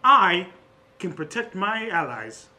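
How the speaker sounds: grand protector with a punched start; boastful artificer. Acted. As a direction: proclaim yourself the allies' protector, theatrically. Louis reassures and boasts.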